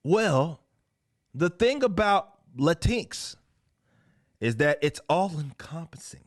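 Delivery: high, deliberate mocking read; mock comic dialogue. Host reading comic characters explaining Latinx, mocking high delivery. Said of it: "and this is what they say".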